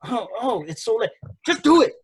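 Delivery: hammed-up impatient urging, pitch climbing; imitating Mia Yim. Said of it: "And then she's just like".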